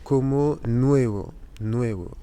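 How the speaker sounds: "nuevo" said slowly in Spanish, with a clear n; Spanish pronunciation demo. Shown as a demonstration. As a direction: model the Spanish word "nuevo" slowly for learners. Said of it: "se pronuncia N".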